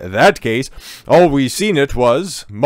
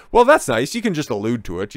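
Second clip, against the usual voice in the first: sarcastic. Real, not acted. Sneering at the reporter, mock sweet. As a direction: fake approval, pitched up.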